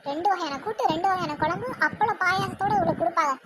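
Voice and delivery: understated, sarcastic echo; mocking echo. Daughter-in-law echoes the lunch order behind her back, mocking. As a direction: repeat the order as a derisive aside.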